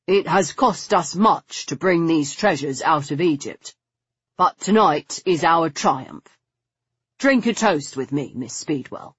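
lightly voiced gentleman proposing a toast; a touch of triumph, inviting her to drink; triumphant male guide.

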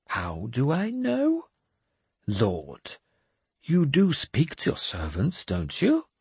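put-on high, slow, grandly pious old madman; a cracked holy man delivering God's message; mad bishop voice. Jeremias answers lord.

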